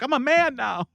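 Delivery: high mocking voice, playing the man. Reaction host mocking the arrested man, in a high mocking voice. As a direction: squeak it out as a jeering taunt. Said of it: "he's like".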